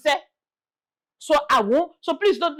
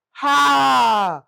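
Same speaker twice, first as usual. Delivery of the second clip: warning shout; 3 semitones higher, 5 dB louder, much slower than usual. Acted. Warning buyers of new developers.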